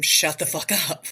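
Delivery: half-joking, a pretend shout at the weed whacker; fantasy of yelling at the noisy neighbor, a mock shout; imagined yell. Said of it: "go out there and scream".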